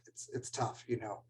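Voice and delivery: holding back tears while speaking; choked up. Real, not acted. Speaker moved by memory of former student, choked up. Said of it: "I get choked up".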